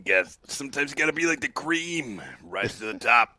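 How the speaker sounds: lightly hammed wrestler promo; Macho Man. Co-host riffs on cream rising, playful wrestler impersonation. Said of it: "one hell of a Macho Man impersonation".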